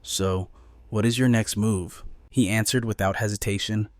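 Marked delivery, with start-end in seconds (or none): 0.0-2.0 softened tone. Acted. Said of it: "Her tone softened".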